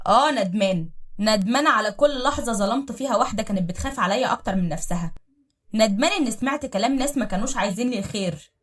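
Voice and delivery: loud bitter outburst of regret; angry admission. Acted. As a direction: throw the regret back at her loudly. Husband shouts back regret. (اعتراف غاضب بصوت عالٍ)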